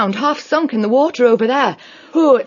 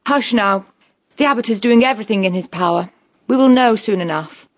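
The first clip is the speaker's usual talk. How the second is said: higher-pitched, steady comforting; firm but kindly reassurance; reassuring; 14 semitones higher than usual. Acted. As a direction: hush and soothe a worried friend. Otter comforts the worried mouse.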